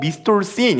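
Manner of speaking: play-acted bright, friendly, cheerful good-mood tone. Showing how he answers the phone when in a good mood: cheerful phone greeting. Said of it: "평소엔 기분이 좋을 때".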